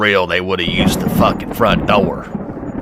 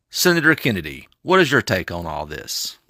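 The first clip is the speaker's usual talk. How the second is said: parody news anchor; 3 dB quieter than usual. Acted. Anchor introduces a guest.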